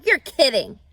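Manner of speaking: loud amazed disbelief; astonished. A narrator's reading. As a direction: blurt it out, stunned. Wilbur astonished.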